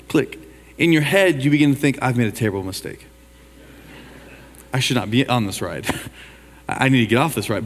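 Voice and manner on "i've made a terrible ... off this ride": softer, lower, a touch of dread; scared inner voice. Retold or imitated. Preacher voicing a rider's panicked thoughts on the first hill, quiet and low. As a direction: mutter it like you regret getting on.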